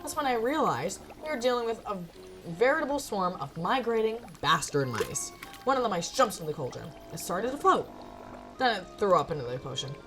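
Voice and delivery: animated first-person storytelling; story narration. Acted. Narrator recounts mice invading the potion room, storytelling. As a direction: tell it like an unfolding mishap.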